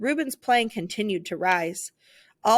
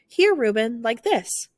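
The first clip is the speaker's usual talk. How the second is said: eager helping; 2 semitones higher, 4 dB louder than usual. Acted. Musicians helping Ruben.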